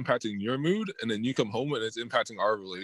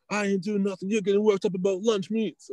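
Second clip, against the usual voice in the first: higher, lightly voiced dismissive partner; mimicking partner; 7 semitones higher than usual. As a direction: brush him off as the partner would. Voicing partner in quarrel.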